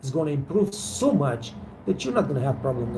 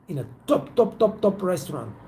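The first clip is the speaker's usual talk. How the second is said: ordinary talk, nothing marked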